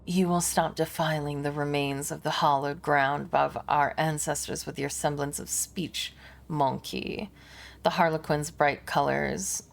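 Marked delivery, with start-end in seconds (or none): 0.0-7.3 "You will stop defiling" reread as the alien Harlequin; corrected alien voice. Shown as a demonstration. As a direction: alien retake. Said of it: "it was the Xenos talking".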